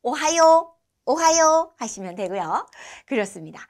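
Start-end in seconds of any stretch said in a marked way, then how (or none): 0.0-0.7 오하요 said alone as a casual hello; casual morning greeting demo; short casual form. Shown as a demonstration. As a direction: clip it down to just 오하요. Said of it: "조금 더 짧게 줄여서".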